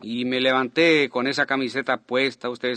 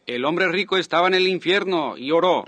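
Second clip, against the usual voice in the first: preaching; 5 semitones higher than usual. Retold or imitated. Retelling his own preaching.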